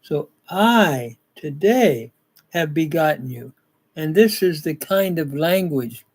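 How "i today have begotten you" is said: deliberate emphasis opening on a long "I"; emphatic I. Shown as a demonstration. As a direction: punch "I" and "today", pause, then relax on "have begotten you". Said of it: "but it's emphatic".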